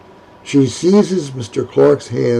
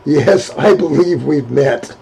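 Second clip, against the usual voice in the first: good-humored. Acted. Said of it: "laughing but with good humor".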